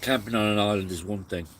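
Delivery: talking with a mouth full; words round a mouthful of food. Real, not acted. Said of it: "I shouldn't talk with my mouth full".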